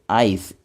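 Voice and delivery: आइस said as "ais", long a gliding into i; sounded out slowly for students; clear demo of आइस. Shown as a demonstration. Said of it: "इस तरह से ये pronounce किया जाता है".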